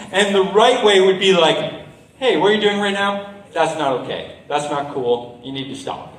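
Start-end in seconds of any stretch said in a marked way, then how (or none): 2.2-6.1 composed, measured request to stop; calm firmness. Shown as a demonstration. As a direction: demonstrate calmly confronting a bully. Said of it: "Being calm".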